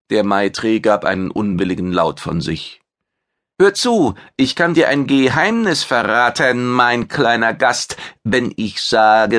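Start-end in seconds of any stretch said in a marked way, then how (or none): 3.6-9.4 a vain chef bragging about his fame; proud alien chef. Acted. Maitre shares a secret.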